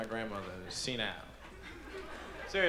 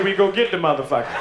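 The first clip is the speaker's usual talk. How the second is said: mild tough talk; 5 semitones higher, 10 dB louder than usual. Retold or imitated. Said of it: "I say".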